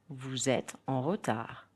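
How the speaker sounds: "Vous êtes" linked with a z sound; teacher's model of the z liaison in "Vous êtes"; French liaison. Shown as a demonstration. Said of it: "try to hear the liaison".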